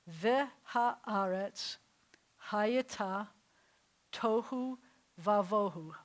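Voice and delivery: Vehaaretz hayata tohu vavohu, slow, each breath pushed out; breathy Hebrew. Shown as a demonstration. Teacher reading the Hebrew line on the breath. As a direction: expel the air on tohu and vavohu. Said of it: "very breathy things going on".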